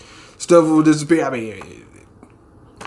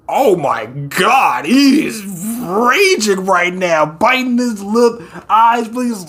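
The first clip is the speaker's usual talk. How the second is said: excited slow exclamation; 4 semitones higher, slower than usual. Real, not acted.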